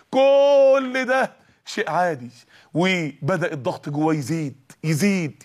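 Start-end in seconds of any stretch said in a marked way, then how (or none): 0.1-2.3 drawn out slowly and a bit louder, mocking; slow, louder sarcastic drawl; mock reassurance. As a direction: stretch it out like a dismissive shrug.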